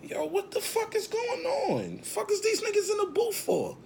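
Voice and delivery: very high falsetto disbelief; incredulous squeal. Retold or imitated. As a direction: squeak it out, baffled and exasperated. Acting his bewilderment, very high squeal.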